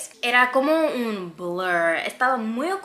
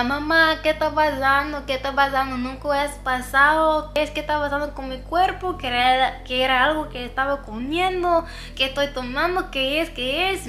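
high, frantic pleading to mom; a scared daughter waking her mother, crying in panic; panicked crying; 6 semitones higher than usual. Retold or imitated. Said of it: "Estaba llorando más fuerte".

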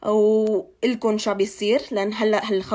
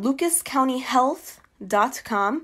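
slow, clear dictation; 3 semitones higher, much slower than usual. Shown as a demonstration. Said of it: "spells out the website".

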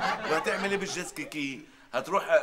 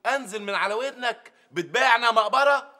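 indignant outburst; 5 semitones higher, 4 dB louder than usual. Acted. Quarrel over sold goods.

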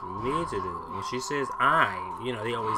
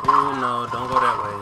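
loud, urgent no; alarmed yell; 6 dB louder than usual. Real, not acted. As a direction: shout a warning at the screen. Yelling at game character.

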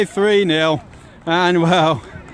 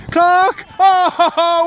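rising excited shout of the name; 5 semitones higher, 3 dB louder than usual. Real, not acted. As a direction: call the name out, thrilled. Calling out as he scores.

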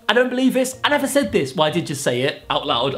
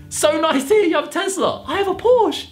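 high-pitched mock brag; boastful pop star; 11 semitones higher than usual. YouTuber reads AI bragging back, high mock celebrity voice.

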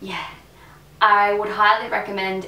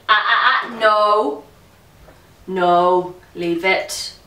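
loud, firm command; scolding a pet; 6 dB louder, slower than usual. Real, not acted. Vlogger to a misbehaving pet mid-filming, loud firm telling-off. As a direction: cut in loudly to stop the pet.

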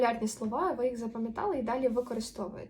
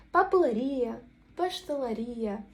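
"папелерія", "пештелерія" with stressed, drawn-out RI; slow words, leaning on the "ія" endings; наголос на «ія»; 4 dB louder, slower than usual. Shown as a demonstration. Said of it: "тоді ми наголошуємо останній склад". («папелерІя», «пештелерІя»: протяжний наголос на І)

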